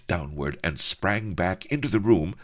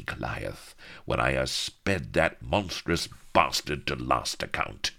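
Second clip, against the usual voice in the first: swashbuckling captain. Acted. Pirate captain swaggers.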